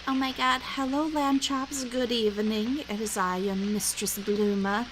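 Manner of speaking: lightly put-on fancy mistress greeting. Showing how Bluma sounds fancy, mock-grand greeting. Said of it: "Bluma has two ways".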